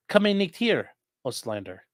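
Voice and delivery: high first phrase, falling away in a Russian-like accent; botched German with a Russian accent; Russian-sounding accent. Shown as a demonstration. Streamer repeating the phrase he just botched, Russian-sounding accent. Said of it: "Why did I say that with, like, a Russian accent?".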